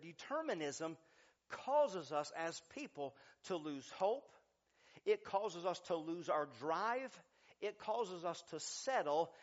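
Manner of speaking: measured, phrase by phrase, with pauses; slightly slowed-down restatement for the listeners. Real, not acted. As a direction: spell it out deliberately, pausing between points. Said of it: "let me say that a little bit slower".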